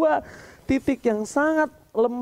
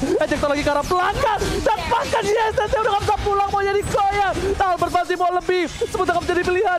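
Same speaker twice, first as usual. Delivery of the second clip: fighting game announcer; 6 semitones higher than usual. Real, not acted. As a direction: roar the Maniac like an arena announcer. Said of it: "caster screams triple kill, Maniac". (teriakan penyiar game pertarungan)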